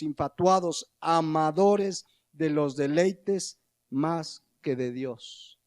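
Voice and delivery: slow, weighty list, each word set apart; solemn scripture reading. Acted. Preacher to congregation, reading Timothy's list of vices slowly and gravely. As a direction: read out the vices one by one, gravely.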